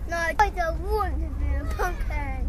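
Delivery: crying. Real, not acted. Child refusing pumpkin costume.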